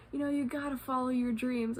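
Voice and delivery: lightly hyped pep talk; retold hyping up. Fellow traveler cheers on the speaker, mildly hyped encouragement. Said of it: "we were hyping each other up".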